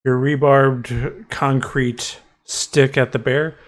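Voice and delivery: slow, deliberate scene setting; game master narration. Acted. Game master tells the player how the swing at the bear lands, measured narration. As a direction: narrate the blow slowly, piece by piece.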